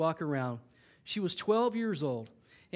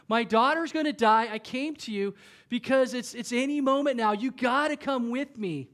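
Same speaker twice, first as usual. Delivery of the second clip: desperate plea; 4 semitones higher, 3 dB louder than usual. Retold or imitated. Jairus's imagined desperate plea.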